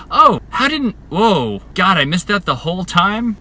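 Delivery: high, loud, astonished realisation; acted epiphany. Rider retelling her dumb little epiphanies, astonished realisation. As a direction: act out being floored by the obvious, breaking off mid-thought. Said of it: "a whole series of dumb little epiphanies".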